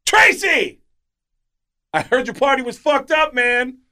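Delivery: high, loud teasing call across the room. Retold or imitated. Comic calling across the room to Tracy Morgan, teasing. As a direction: shout it out to greet him.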